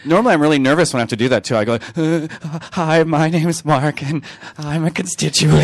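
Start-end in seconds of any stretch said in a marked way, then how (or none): 2.0-5.6 put-on slow, higher loose Valley Girl; a hint of Valley Girl. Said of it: "sound a little bit like a Valley Girl".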